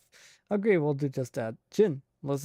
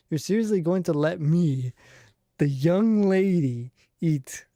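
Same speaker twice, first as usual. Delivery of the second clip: put-on louder, haughty young-lady voice, slowing on the young lady; indignant young lady; 3 semitones higher, 6 dB louder than usual. Streamer acting the character's outrage in a louder haughty voice. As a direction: demand it like an offended little princess.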